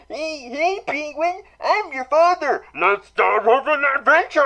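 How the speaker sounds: high, bad Pee Wee Herman voice; Pee Wee Herman impression. Pee Wee Herman greeting Penguin, high and loud. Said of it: "Oh, that was horrible".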